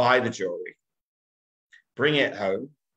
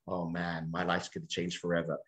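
mock despair; 5 semitones lower, 8 dB quieter than usual. Husband's dismayed reaction.

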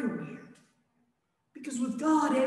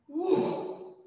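calming; 3 semitones higher, much slower than usual. Acted. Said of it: "Jesus looks at him and goes".

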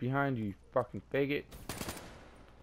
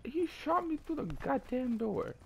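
angry rant; 9 semitones higher than usual. Real, not acted. Raging after repeated deaths.

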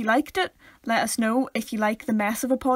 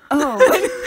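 surprised oh; 8 semitones higher, 9 dB louder than usual. Retold or imitated. Retold visitors' surprised reaction.

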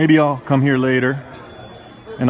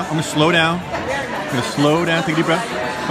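slowing down. Real, not acted. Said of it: "I'm gonna slow down now".

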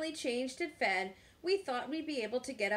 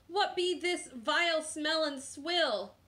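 slow, higher pirate disgust; 6 semitones higher than usual. A narrator's reading. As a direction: draw it out in piratical revulsion. Disgusted pirate sniffs baby food.

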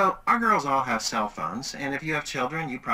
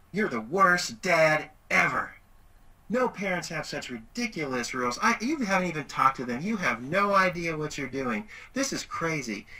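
mock angry teen; 4 semitones higher than usual. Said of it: "she did this".

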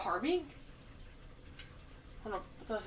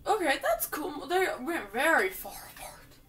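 laughing; 4 semitones higher than usual. Real, not acted. Laughing while playing.

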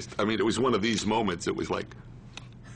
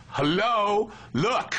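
higher-pitched imitation of a disbelieving objection; mock incredulity, voice lifted; retold incredulous protest; 9 semitones higher, slower than usual. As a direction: act out his baffled pushback, pitched up. Retells Eddie's protest at old-man role.

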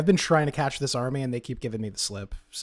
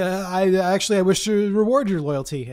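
mock gracious; 6 semitones higher, 6 dB louder than usual. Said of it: "so I could say".

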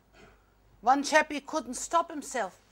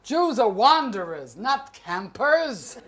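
lower, quick scolding parent voice; a lightly voiced exasperated parent; stern parent; 7 semitones lower than usual. Parent scolding Debbie for going camping, lower and quick.

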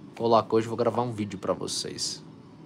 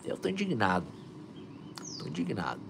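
repeated, softer each time, fading down; fading affirmation; 2 semitones lower, 7 dB quieter than usual. Shown as a demonstration. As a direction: let the words sink in, quieter each time. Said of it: "Vibra essa frequência".

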